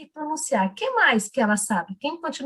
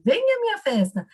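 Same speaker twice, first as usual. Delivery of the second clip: put-on high singsong child's storytelling; a teacher copying a child's story voice; imitating a child reader; 9 semitones higher than usual. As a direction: mimic the little girl's reading cadence. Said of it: "ela fala assim".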